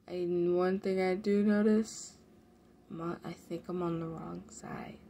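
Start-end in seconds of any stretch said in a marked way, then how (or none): 2.9-5.0 breathy unvoiced whisper. Real, not acted. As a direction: whisper it to yourself. Aside while gaming.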